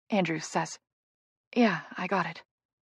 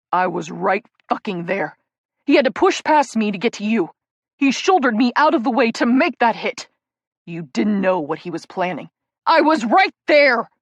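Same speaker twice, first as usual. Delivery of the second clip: grieving shout that breaks open at the end; 5 dB louder than usual. Acted. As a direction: yell it through tears. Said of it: "Jake shouts".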